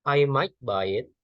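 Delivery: "I" and "might" slow, ending on a rise; slow teaching example with a fall on might and a rise on buy; falling-rising demo. Shown as a demonstration. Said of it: "ketika might itu memiliki intonasi yang turun".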